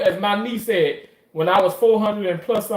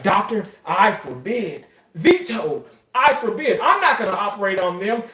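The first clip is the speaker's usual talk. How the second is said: mock refusal; 4 semitones higher than usual. Acts out pompous refusal to operate.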